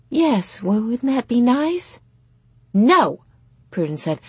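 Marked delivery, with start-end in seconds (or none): 0.1-2.0 high, sweet coaxing; pitched-up motherly hopefulness; hopeful mother. A narrator's reading. Mother hopefully presses her offer. 2.7-3.2 put-on loud, high teenage no; loud, appalled objection; horrified refusal. A narrator's reading. Prudence refuses mother's offer.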